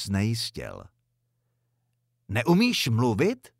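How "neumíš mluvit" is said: slow, pointed scolding question; exasperated outburst. A narrator's reading. Mother scolding son for not greeting the visitor, exasperated outburst. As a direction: snap at the silent boy, stretching the words.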